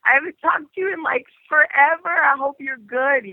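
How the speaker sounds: high, sweet gushing voice; gushing catch-up. Retold or imitated. Catching up with a dear old friend, cooing high and sweet. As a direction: coo it like to a long-lost friend. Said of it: "it's like".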